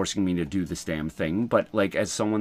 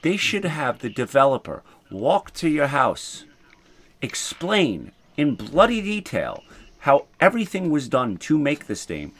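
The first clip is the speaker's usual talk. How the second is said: much higher, animated outrage; outraged rant; 6 semitones higher than usual. Real, not acted. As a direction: rant in disbelief.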